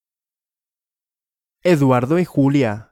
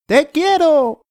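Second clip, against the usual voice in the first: very high, slow shouted declaration of love; 13 semitones higher, 4 dB louder, slower than usual. Acted. Eduardo shouting his love up at Julia, high and slow. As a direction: belt it up high and slow to her. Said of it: "¿Qué gritó Eduardo a Julia?".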